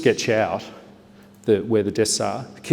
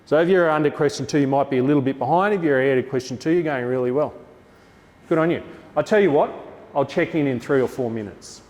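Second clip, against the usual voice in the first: projected teacher voice; 4 semitones higher than usual. Shown as a demonstration. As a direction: project across the room like a teacher. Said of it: "So I'll talk like this".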